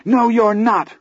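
defiant shout. Acted.

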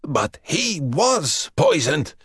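a lightly rasping, frightened captive; rasped. Acted. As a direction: gasp out the fear of poison. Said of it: "Dragozani rasped".

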